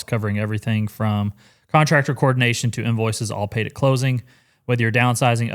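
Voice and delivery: scripted ad read, read aloud; sudden sponsor read. Acted. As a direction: read the sponsor copy straight. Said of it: "we gotta do an ad read".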